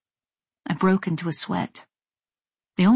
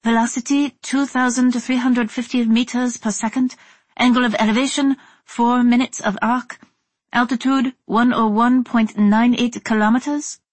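put-on higher-pitched reading with faint Taiwanese accent; high, excited female voice; 5 semitones higher than usual. A narrator's reading. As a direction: read figures out high and excited. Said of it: "Her voice was shockingly high".

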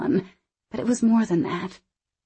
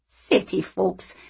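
teasing; slower than usual. Acted. Anna shaking head.

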